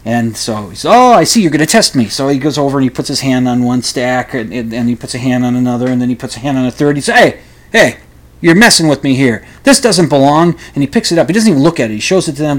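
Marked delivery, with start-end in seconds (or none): 0.9-2.1 lightly voiced eccentric psychic, higher; a hint of the showy psychic catching them out; theatrical psychic, lightly played; mock Russian psychic. 7.2-10.6 lightly voiced eccentric psychic, higher; a hint of the showy psychic catching them out; theatrical psychic, lightly played; mock Russian psychic.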